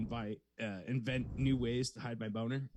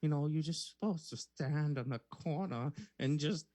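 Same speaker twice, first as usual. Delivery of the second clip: put-on Australian old lady. Last shot at the role, Australian accent turned old lady. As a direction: try an Australian woman, landing on old lady. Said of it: "I transformed into an old lady".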